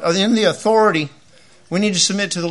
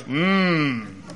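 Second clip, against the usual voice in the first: soft Mennonite hum; 5 semitones lower, 6 dB quieter than usual. Retold or imitated. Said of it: "everybody goes".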